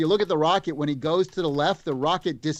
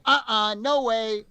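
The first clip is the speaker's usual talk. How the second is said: high, nervous "no way"; scared refusal; 6 semitones higher, slower than usual. Retold or imitated. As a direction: back away in mock fright. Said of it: "And he's like".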